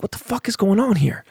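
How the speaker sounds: high, exasperated disbelief; incredulous squeal. Retold or imitated. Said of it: "I'm like".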